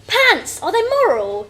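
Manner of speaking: a lightly voiced silly child; goofy kid. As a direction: play a giddy little kid obsessed with pants. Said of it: "one's just singing about pants".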